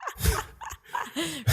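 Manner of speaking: short high amused laugh. Real, not acted. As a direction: break into a real laugh at the joke. Laughing at co-host's joke.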